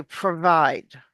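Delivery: PROVIDE with a really flat American R. Shown as a demonstration. Coach shows a student the word, flat R in PROVIDE. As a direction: keep the tongue off the roof for the R in "provide". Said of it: "Our American R is really flat".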